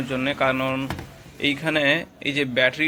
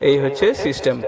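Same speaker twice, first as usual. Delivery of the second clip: echo. Real, not acted. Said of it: "আমি এবারে ইকোটা ধীরে ধীরে বাড়াচ্ছি".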